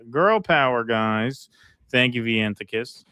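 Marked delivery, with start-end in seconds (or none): 0.1-1.5 ditzy cheerleader voice; bubbly valley girl cheer. Pretend. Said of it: "Ditzy cheerleader voice".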